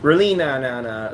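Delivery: quick call to stop a little one; parental warning. Real, not acted. Dad to toddler reaching for something, parental warning. Stopping the child with the thing.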